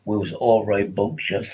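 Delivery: lightly voiced posh public-school type; mock upper-class ramble; a hint of a toff; posh schoolboy. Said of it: "So that's how, uh, Vincent speaks".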